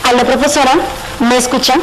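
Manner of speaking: lightly distorted phone voice; slightly distorted. Pretend. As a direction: voice over a phone call. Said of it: "te escuchamos un poquito distorsionado".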